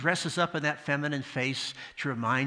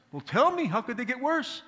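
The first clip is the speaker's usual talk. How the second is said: higher and a bit louder, pleading; exasperated complainer; 10 semitones higher, 3 dB louder than usual. Retold or imitated. Jewish man pleads with the rabbi, higher and louder. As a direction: demand an answer, fed up. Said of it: "He says".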